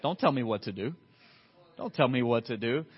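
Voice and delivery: stubborn, low-pitched pushback; mock defiance. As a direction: dig in against being given orders. Acts out resistance to obedience.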